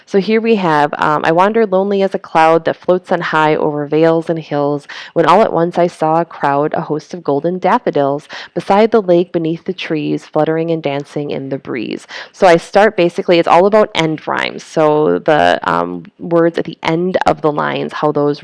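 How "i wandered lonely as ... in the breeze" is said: poem reading. Shown as a demonstration. Teacher reads poem to class.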